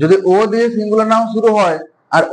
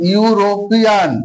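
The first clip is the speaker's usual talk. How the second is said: slow careful demo; much slower than usual. Shown as a demonstration. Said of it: "কি আসছে উচ্চারণটা".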